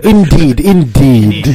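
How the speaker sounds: measured, put-on British "indeed"; British accent. Co-host showing off intelligence, in mock British accent. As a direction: sound cleverer with a British accent. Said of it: "said in a British accent".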